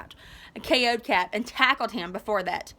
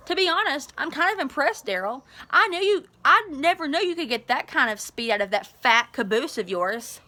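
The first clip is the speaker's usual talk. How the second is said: taunting bully; 3 semitones higher than usual. Acted. Zach taunting Daryl.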